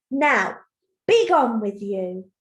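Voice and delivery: loud, slow troll dismissal; shouting angry troll. Acted. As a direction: send them off as a cross troll. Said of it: "because he's shouting, isn't he? He's so angry".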